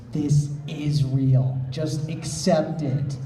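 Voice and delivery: slow, annoyed insistence. Acted. Nate to a stubborn Doogie, slow and annoyed. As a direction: lay it down slowly, fed up. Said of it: "annoyance plainly audible in his voice".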